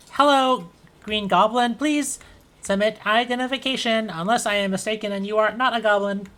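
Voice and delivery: robot voice. Acted. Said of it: "and the robot says".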